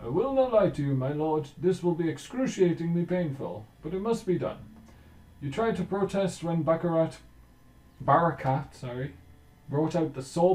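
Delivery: guessing at a Berber accent, hammed up; attempted Berber accent. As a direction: Berber surgeon warning his lord, in a loud made-up Berber accent. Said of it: "I don't know what a Berber accent sounds like".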